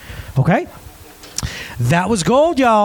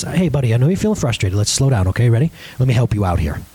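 lower, soothing dad voice; mildly tender, reassuring; gentle encouragement; 8 semitones lower than usual. Retold or imitated. Dad gets down beside frustrated son, low gentle reassurance.

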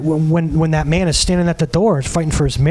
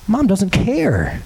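slow repeat; much slower than usual. Retold or imitated. Repeating the kid's line slowly.

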